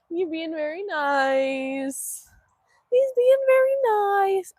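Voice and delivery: drawn-out singsong praise; cooing pet praise. Real, not acted. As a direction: coo slowly to a beloved animal.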